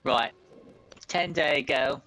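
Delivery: lightly voiced old man recounting the raids; a hint of an old villager giving his account; old village headman.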